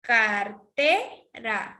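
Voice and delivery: Car-TE-ra stretched into three syllables; stress on second syllable. Shown as a demonstration. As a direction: draw out Cartera, up on TE and down on ra. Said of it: "va más arriba".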